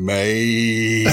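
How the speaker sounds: long drawn-out "mate" of dismay; appalled interjection. Retold or imitated. Eavesdropper itching to turn round and butt in, long appalled groan. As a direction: stretch it out like a pained plea.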